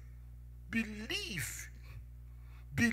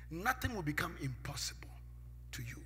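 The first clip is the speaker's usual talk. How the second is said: whisper; 3 semitones lower, 8 dB quieter than usual. Real, not acted. Whispered promise in sermon.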